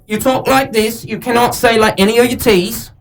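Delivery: Cockney demo with dropped T's; British accent. Shown as a demonstration.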